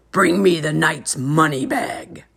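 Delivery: a hint of a demanding giant. A narrator's reading. Giant ordering his wife, lightly voiced. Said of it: "he said".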